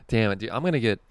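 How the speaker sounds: ordinary delivery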